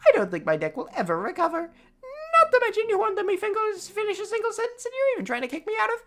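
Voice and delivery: very high, fast, fake-crying whine; whiny sobbing complaint. Brother wailing to Dad about his sore neck, fake sobbing. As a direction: blubber the complaints like a spoiled brat.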